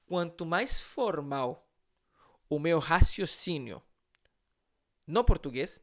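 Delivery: quanto mais formal o meu raciocínio, spaced out very slowly; slow quoted motto. Shown as a demonstration. Teacher recites his motto to students, very slow and deliberate. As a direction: lay out the motto word by word. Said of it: "uma frase que talvez alguns já me ouviram falar".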